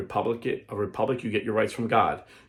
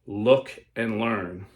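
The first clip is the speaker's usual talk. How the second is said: mysterious voice; much slower than usual. Acted. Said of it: "said the same mysterious voice".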